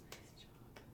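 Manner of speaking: soft praise. Real, not acted. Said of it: "quiet praise".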